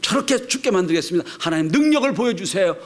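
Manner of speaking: 높고 크게 울부짖듯 호소; 부르짖는 기도. Retold or imitated. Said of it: "라고 막 부르짖습니다". (높은 목소리로 간절히 부르짖듯)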